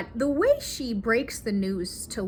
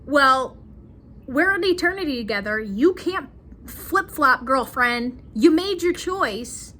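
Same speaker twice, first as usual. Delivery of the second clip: higher and louder, a fed-up husband mimicked; exasperated Luke; 3 semitones higher, 4 dB louder than usual. Luke scolding Joan in the mountains, exasperated and raised. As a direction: play Luke snapping back at his whining wife. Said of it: "Luke is just like".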